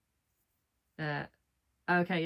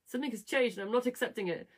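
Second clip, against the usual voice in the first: slightly raised, lightly acted refusal; stubborn character; 5 semitones higher than usual. Character refusing any change, lightly acted stubbornness. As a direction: dig in with mock stubbornness. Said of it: "I'm doing this like it's him".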